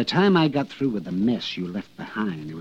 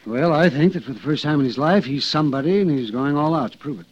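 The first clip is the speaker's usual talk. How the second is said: higher-pitched, pressing explanation; emphatic explaining; 4 semitones higher, 3 dB louder than usual. Acted. Explaining the witness's motive to Frank, emphatic. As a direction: spell it out with energy.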